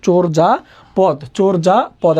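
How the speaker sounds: চোর যা পদ in three separate, slow syllables; syllable-by-syllable pronunciation. Shown as a demonstration. Teacher dictates the correct pronunciation to students, syllable by syllable. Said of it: "উচ্চারণটা right answer হবে".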